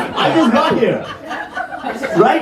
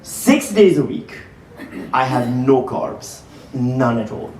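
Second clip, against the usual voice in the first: slow deliberate; 8 semitones lower, 3 dB quieter than usual. Acted. Comic slow solemn setup.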